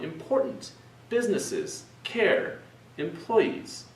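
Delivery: each word lifted high: "important", "businesses", "care", "employees". Shown as a demonstration. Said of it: "I raised my voice, the pitch".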